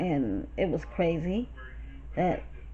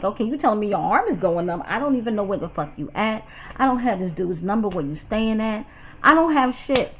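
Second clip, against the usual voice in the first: exasperated retelling; 4 dB louder than usual. Retold or imitated. Retelling her frantic, angry texts and calls.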